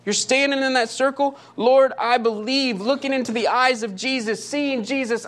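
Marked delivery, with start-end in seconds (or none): 1.6-2.8 anguished plea. Acted. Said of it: "Do you hear it?".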